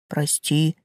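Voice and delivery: low, soft tree voice; the tree voice, quiet and low; talking tree. Acted. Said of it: "низкий и бархатистый".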